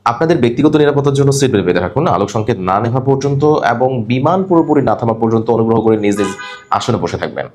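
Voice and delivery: smooth cabin announcement fading at the end; announcement read. Shown as a demonstration. Teacher demonstrating a seat belt announcement in Bangla. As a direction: read it like the crew on landing. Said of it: "সুন্দর করে পড়ার একটা style আছে".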